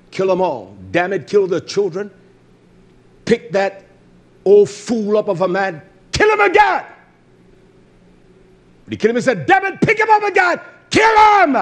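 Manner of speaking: playing a bloodthirsty tyrant giving orders; mock commanding god. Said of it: "He's gonna say to them, like".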